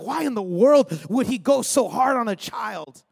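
loud exasperated question; indignant child. Retold or imitated. Scared boy questioning his dad, loud exasperated. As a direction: demand an answer, loudly exasperated. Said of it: "my eight-year-old mind was trying to reason".

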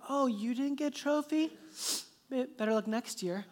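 mock-sympathetic taunt; gloating daughter. Girl to trophyless sister, imitated smug taunt. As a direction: gloat lightly, as if strutting past. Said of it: "I see her just start to strut with her trophy".

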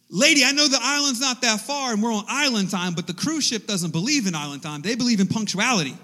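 loud, exasperated plea, starting high; hammed-up impatient outburst; mock exasperation. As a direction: plead urgently with someone who won't hurry. Acted frantic plea to the slow officer.

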